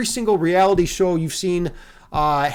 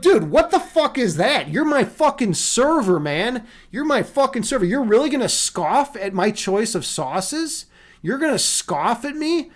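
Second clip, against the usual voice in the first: higher-pitched, incredulous outburst; worked-up, offended rant; indignant retort; 3 semitones higher than usual. Retold or imitated. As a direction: challenge the server in disbelief. Retold indignant retort to scoffing server.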